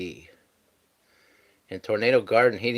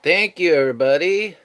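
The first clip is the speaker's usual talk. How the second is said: excited thanks; 7 semitones higher, 8 dB louder than usual. Real, not acted.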